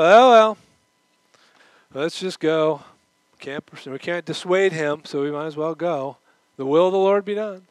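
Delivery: mock-resigned disciples giving up on Paul. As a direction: give in with a fatalistic shrug. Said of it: "fatalistic resignation".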